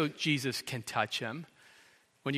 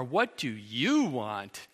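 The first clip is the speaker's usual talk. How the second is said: slow, lowered, contemptuous; dismissive; 3 semitones lower, slower than usual. Acted. Jesus imagined looking down on the beggar, dismissive. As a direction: say it like he isn't worth your time. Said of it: "As in, "You don't deserve my attention".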